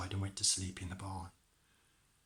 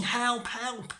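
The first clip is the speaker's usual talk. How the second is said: high-pitched storybook cry of alarm; shouting for help; 12 semitones higher, 5 dB louder than usual. Acted. Maid runs to the parson, high shouting. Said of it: "she run off into the house shouting".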